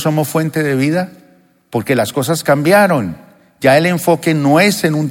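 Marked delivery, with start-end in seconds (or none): none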